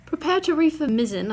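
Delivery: high, loud mock British captain barking orders; a hammed-up British sea captain; ship's head giving orders in a put-on British accent. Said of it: "I don't know why I'm doing a British accent".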